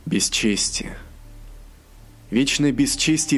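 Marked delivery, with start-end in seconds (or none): 0.1-1.0 breathy whisper of dishonor. A narrator's reading. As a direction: breathe the word out. Whispered single word.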